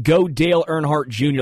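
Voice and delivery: mild mock cheer with a Southern twang; mock Southern yell. Host joking about his borrowed accent, mild mock Southern yell. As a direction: lightly holler it like a Southern racing fan. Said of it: "I'm yelling".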